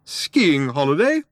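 loud, drawn-out, high incredulous echo; outraged cry. A narrator's reading. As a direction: cry it back in slow disbelief. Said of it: "cried the old man".

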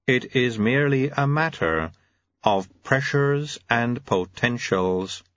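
lightly voiced measured auditor; slightly formal, slowing official; hint of a ponderous official; Mister White. Mister White pronounces in character.

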